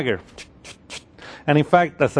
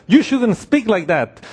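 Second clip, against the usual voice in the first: slower, higher-pitched telling-off; acted rebuke; 4 semitones higher than usual. Peter rebuking Christ, mildly hammed-up scolding. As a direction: scold him deliberately, drawing the words out. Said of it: "here is Peter rebuking Christ".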